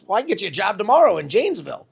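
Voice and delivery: loud, high, quick acted offer; retold emphatic offer. Program director offering departing intern a job, loud quick emphatic offer. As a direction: imitate a boss blurting an offer, fast and loud.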